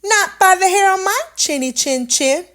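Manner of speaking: high, loud little pig; shouted back. Acted. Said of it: "so he shouted back".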